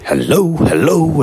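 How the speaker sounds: two high hellos, rising then falling; greeting a wall. Retold or imitated. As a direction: call hello to test the echo. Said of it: "I'm saying this to the wall".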